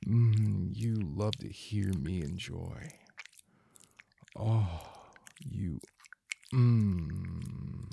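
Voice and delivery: breathy, moaning intimate voice throughout; sensual erotic roleplay. Acted. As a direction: murmur it like a lover lost in pleasure.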